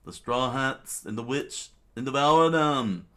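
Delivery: high, loud royal tantrum; screamed outrage. Acted. King stomping as he rages at his enemies, screaming outrage. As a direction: rage it out, pitch climbing. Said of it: "Wapol immediately screamed out".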